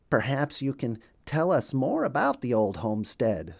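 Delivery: a hint of a put-on duck voice; polite wounded drake asking; lightly voiced drake. Mister Mallard asks Bluebird about homestead.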